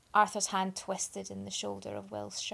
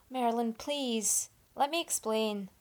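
panicked plea; 3 semitones higher, 4 dB louder, slower than usual. Acted. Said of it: "panicked edge had started to creep".

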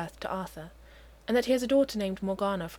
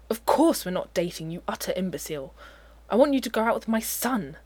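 louder, indignant rebuke; exasperated; 5 dB louder than usual. Acted. Uther correcting Merlin's mistaken idea, indignant and loud. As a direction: snap at the fool in outrage.

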